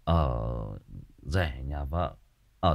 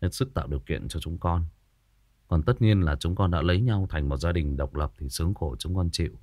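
cold and aloof; 3 semitones lower than usual. Retold or imitated. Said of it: "giọng quả rất là lạnh lùng".

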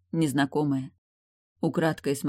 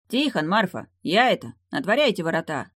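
calling out; 4 semitones higher, 3 dB louder than usual. Acted. Calling out at the gate.

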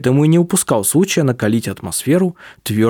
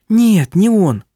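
high, louder burst of denial; sharp denial; 8 semitones higher, 3 dB louder, slower than usual. A narrator's reading. Vilyamu quickly denying it to Dominik, high and louder. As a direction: cut him off fast.

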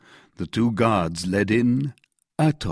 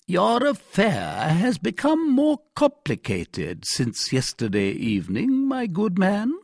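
stern commissary; 12 semitones higher, 5 dB louder than usual. Acted. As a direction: lecture the prisoner from a height of authority. Commissary questions the prisoner.

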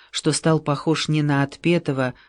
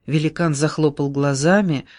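ordinary delivery

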